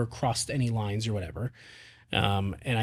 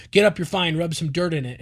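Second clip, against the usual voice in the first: brisk, louder shrug-it-off; tough-love dad brush-off; 3 semitones higher, 5 dB louder than usual. Retold or imitated. Dad telling fallen son to get up, brisk. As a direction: tell the kid to shake it off. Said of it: "it's not so much like".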